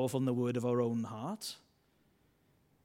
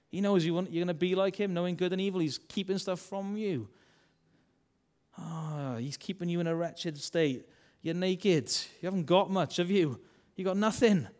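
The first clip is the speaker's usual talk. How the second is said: tempting voice; 4 semitones higher than usual. Retold or imitated. Devil whispering to Adam and Eve, taunting. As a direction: goad them like the tempter. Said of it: "This voice said to them".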